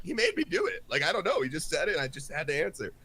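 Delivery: high, soft, whiny protest falling away; mock pleading excuse. Fake God excusing himself to other guys, mock pleading. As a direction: play someone caught out, shifting blame. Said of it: "looking to the other guys like".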